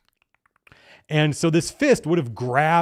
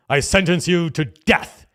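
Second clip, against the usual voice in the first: slow and louder, each word weighed; grave judge's sentence; 4 semitones higher, 5 dB louder, slower than usual. Retold or imitated. Judge face sentencing the party, slow and booming. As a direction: pronounce doom from the bench.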